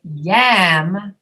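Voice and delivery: YAM with the jaw dropped wide on the vowel; open-jawed yam. Shown as a demonstration. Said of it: "you have to really drop your jaw".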